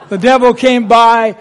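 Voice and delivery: laughing through the line after the mic mishap. Real, not acted. Reading the poem, still laughing at the mic. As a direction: still chuckling as he reads on.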